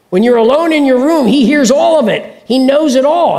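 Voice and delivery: urgent report. Retold or imitated. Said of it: "somebody says".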